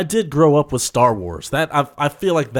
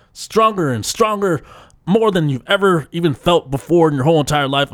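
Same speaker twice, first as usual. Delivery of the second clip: hype announcer. Acted. Host hyping his podcast to listeners, big announcer push. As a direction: pump up the listeners like a promo. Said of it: "That's how I bring it".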